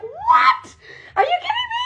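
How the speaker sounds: very high, incredulous mock shriek; mock outraged outburst. Retelling her reaction to a post against her favorite drink, mock outraged. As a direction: go off in exaggerated disbelief, laughing. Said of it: "I went off. I'm like".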